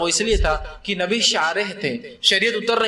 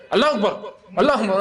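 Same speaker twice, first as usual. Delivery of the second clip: insistent call; 3 semitones higher than usual. Retold or imitated. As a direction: keep calling to the imam to sit back down. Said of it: "اس کو". (امام کو روکنے کے لیے زور سے اللہ اکبر)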